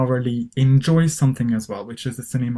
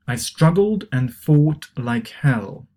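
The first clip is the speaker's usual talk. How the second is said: model reading; 2 semitones higher, 4 dB louder, slower than usual. Shown as a demonstration. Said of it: "try to pronounce these expressions".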